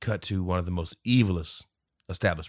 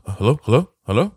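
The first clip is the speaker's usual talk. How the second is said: calling out; 6 semitones higher, 9 dB louder than usual. Acted. Acts out calling into the phone.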